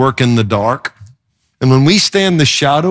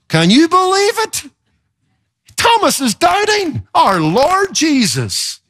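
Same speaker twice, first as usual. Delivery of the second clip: mock holy horror; 12 semitones higher than usual. Preacher mocking the congregation's outrage at Thomas, much higher and scandalized. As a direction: ham up the shocked churchgoer clutching pearls. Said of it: "we raise our hands in holy horror".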